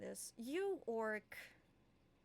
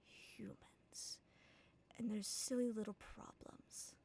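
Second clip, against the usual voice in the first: mysterious voice in head. Acted. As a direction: whisper it into someone's mind. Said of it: "a voice just peeks through".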